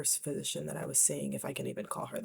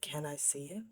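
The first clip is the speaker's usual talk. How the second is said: timid whispered question; 6 dB quieter than usual. Retold or imitated. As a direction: whisper it, small and shaken. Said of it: "I was like".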